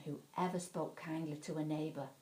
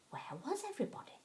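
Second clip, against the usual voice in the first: puzzled; 9 semitones higher, 4 dB quieter, much faster than usual. A narrator's reading. Puzzled question in empty den.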